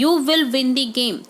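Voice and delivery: very slow example sentence; slow dictation read. Shown as a demonstration. Teacher dictating the answer sentence to students. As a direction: dictate it word by word.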